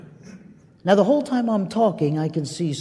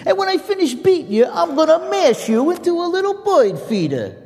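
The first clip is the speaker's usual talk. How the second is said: loud, high bullying brute voice; mocking giant; 9 semitones higher, 5 dB louder than usual. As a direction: sneer and roar like a big bully. Giant mocks the boy.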